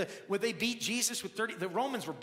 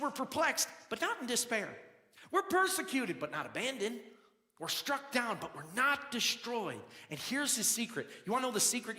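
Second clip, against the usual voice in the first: full force preaching. Acted. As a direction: preach it hard to the congregation.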